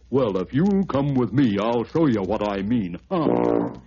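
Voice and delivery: lightly voiced elephant, smug. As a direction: elephant challenging the bear. Elephant answers the bear.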